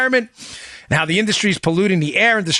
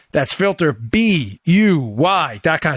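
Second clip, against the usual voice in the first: slow, spelled-out cheer chant; cheerleader; much slower than usual. Acted. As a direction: spell it out like a pep rally. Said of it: "Sound like a cheerleader".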